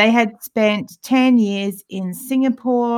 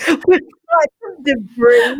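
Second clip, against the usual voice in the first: slow, loud Australian mimic, higher; broad Australian accent; 6 semitones higher, 7 dB louder, much slower than usual. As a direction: drawl it like an Aussie pilot. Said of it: "very Australian accent".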